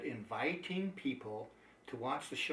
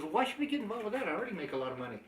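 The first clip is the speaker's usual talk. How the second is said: incredulous retort; 6 semitones higher, much faster than usual. Retold or imitated. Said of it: "my response was".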